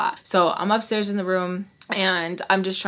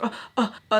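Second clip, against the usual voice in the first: mildly mimicked startled ohs; imitated startle; much faster than usual. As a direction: act out someone caught off guard, lightly. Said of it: "like, startled".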